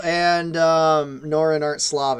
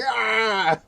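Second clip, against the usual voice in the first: higher, mock battle scream at talking volume; mild imitated scream; 6 semitones higher than usual. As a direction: imitate a scream without really yelling. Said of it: "a scream, basically, her going".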